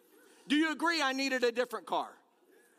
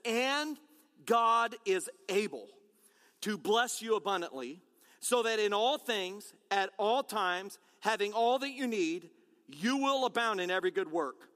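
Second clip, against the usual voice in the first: scripture reading; 3 semitones lower than usual. Acted. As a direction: read the promise out with weight. Pastor reads scripture verse.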